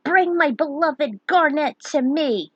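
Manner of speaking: put-on old man's loud declaration; declared. A narrator's reading. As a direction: call it out to the sky. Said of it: "and declared".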